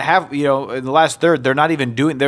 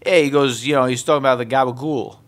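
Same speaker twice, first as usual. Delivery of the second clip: put-on New York accent. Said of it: "New York accents".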